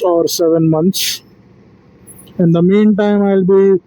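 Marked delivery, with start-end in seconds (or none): 2.4-3.8 yawning. Real, not acted. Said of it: "I'm yawning like anything today".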